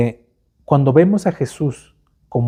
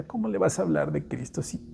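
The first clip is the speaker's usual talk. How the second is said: mocking inner voice; 3 semitones higher, 3 dB quieter than usual. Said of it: "viene la vocecita".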